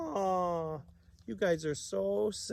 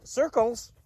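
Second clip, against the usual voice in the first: excited; 8 semitones higher, 4 dB louder than usual. Pretend. Excited exclamation.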